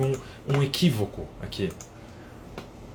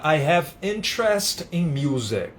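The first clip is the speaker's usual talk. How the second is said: slow example sentence; 3 semitones higher, slower than usual. Shown as a demonstration. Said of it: "vou dar um exemplo aqui".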